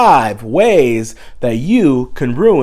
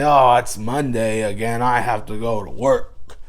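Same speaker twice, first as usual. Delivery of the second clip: gremlin voice; 3 semitones lower than usual. Acted. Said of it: "That's my gremlin voice".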